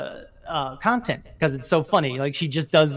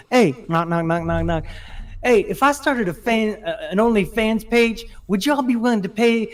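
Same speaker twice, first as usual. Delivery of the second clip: put-on Southern accent; 4 semitones higher than usual. Retelling a creator's video joke, imitated Southern accent. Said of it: "she has a very strong Southern accent".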